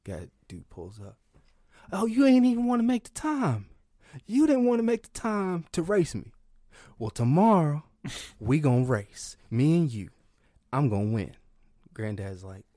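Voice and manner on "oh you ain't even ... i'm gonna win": high, loud taunt; a higher, louder cocky challenger; taunting racer. Retold or imitated. Stranger at gas station taunts granddad, higher and louder.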